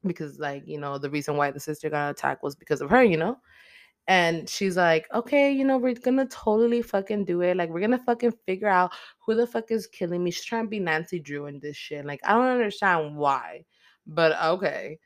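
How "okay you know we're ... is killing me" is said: higher-pitched mock determination; acted-out determination. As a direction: imitate her fired-up resolve in a raised pitch. Acting out her determined resolve.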